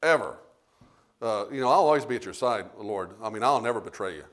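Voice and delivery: a disciple swearing loyalty, softly; Peter's vow. Retold or imitated. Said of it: "when Peter says".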